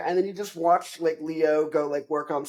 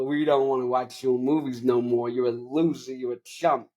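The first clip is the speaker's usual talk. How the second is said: lightly voiced pushy movie big shot; a hint of an Italian-American wise guy; Al Pacino. Agent telling actor he's washed up, light impression. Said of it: "Al Pacino comes in, he goes like".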